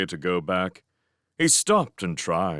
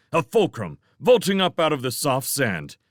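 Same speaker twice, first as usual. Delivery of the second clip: ordinary delivery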